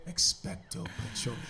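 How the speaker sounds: hushed spell under the blanket; whispering. Retold or imitated. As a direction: whisper the spell so mom won't hear. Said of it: "like, just whispering it".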